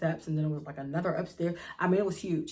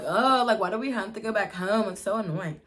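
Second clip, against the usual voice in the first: irritated; 3 semitones higher, 5 dB louder than usual. Retold or imitated. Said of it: "like, irritated, like".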